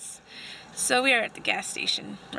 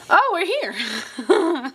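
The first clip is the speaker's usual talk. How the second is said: laughing; 5 semitones higher, much slower than usual. Real, not acted. Surprised to find the room.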